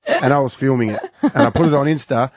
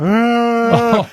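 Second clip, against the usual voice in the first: mock cry; 8 semitones higher than usual. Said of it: "So she starts crying".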